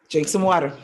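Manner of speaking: ordinary delivery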